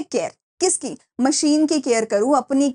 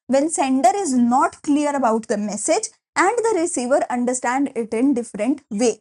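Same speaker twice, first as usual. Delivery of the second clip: very slow, word by word for notes; slow dictation; much slower than usual. Shown as a demonstration. Teacher dictating a definition to students, very slowly. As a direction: spell it out so they can write. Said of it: "dictating definition".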